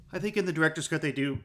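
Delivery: talking through hiccups; words broken by a hiccup. Real, not acted. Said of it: "excuse me, hiccuping".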